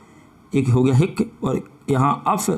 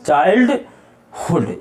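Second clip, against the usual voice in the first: slow modelled word; much slower than usual. Shown as a demonstration. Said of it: "ये हो जाएगा चाइल्डहुड".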